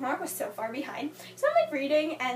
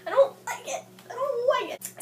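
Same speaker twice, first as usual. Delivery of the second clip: annoyed rant; 5 semitones higher, 5 dB louder than usual. Retold or imitated. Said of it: "I was so angry at her for that".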